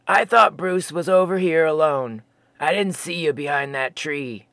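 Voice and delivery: a laid-back giant explaining himself; gentle stoner Sasquatch. Acted. Fosby explaining to Jeremy, low and mellow.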